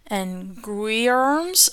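slow, hesitant "guisarmes", sounded out; unsure pronunciation. Real, not acted. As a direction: feel your way through "guisarmes" slowly. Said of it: "I don't know how to say that".

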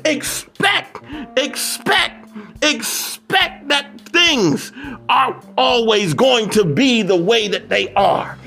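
emphatic preacher's cadence on each repeated phrase; rhythmic, exhorting sermon delivery; motivational preaching. Real, not acted. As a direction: preach it in insistent, building repetitions.

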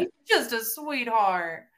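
slow, drawn-out mock-sweet drawl; patronizing. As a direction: stretch it out with condescending sweetness. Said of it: "you're being patronizing".

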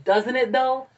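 excited. Retold or imitated. Insisting to friend.

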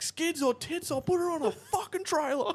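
high yelling bogan heckle; crude heckle. Retold or imitated. Spectator heckles cars with girls, high yell. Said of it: "this one dude would yell".

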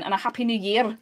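put-on Welsh that drifts towards Scottish; Welsh accent slipping into Scottish. Shown as a demonstration. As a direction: attempt Welsh but land in a Scottish accent. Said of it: "That's Scottish again".

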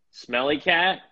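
slow, raspy morning rasp. Real, not acted. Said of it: "it's just raspy enough".

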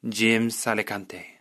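slow, lightly Spanish-accented name; put-on Spanish accent. Shown as a demonstration. Imagining himself with a Spanish surname, Spanish accent. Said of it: "I'm putting on this accent".

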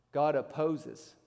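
"God opposes" slow and grave; solemn stress on God; slow weighty warning. Acted. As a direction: let it land heavily. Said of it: "slow weighty quote".

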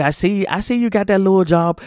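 imitating someone subtly belittling another's job; mock belittling remark. Mimicking someone who belittles a person's new job, lightly dismissive. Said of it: "Why do you say it like that?".

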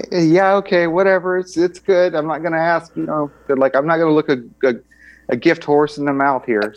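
high, casual mock soldier brushing it off; shrugging soldiers.

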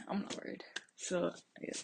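soft breathy whisper. Real, not acted. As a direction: hush it like a secret. Sudden hushed aside to listeners.

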